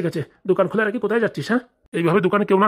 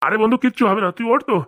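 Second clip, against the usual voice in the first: theatrical wail; 7 semitones higher than usual. Acted. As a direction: wail it like a stage mourner. Uncle wails for the lost nephew.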